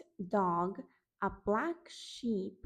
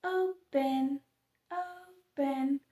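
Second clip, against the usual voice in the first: calling out the magic word; 3 semitones higher, 4 dB louder, slower than usual. Shown as a demonstration. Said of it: "let's say open".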